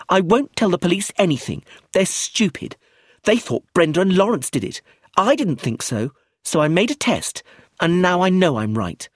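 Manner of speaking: put-on high, loud smug little girl; a child hinting at her secret, slowing at the end; precocious girl Josephine. Josephine voiced by narrator.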